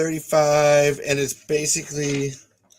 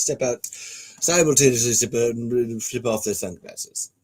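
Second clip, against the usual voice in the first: lightly voiced rakish pirate reading directions; Jack Sparrow. Narrator reading the script's scene setting, light pirate impression. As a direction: read stage directions as a loose pirate impression. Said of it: "gonna try to do Jack Sparrow".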